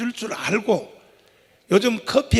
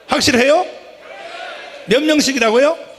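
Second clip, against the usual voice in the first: roaring rallying speech; 5 semitones higher, 5 dB louder than usual. Real, not acted. Rally speaker rousing crowd.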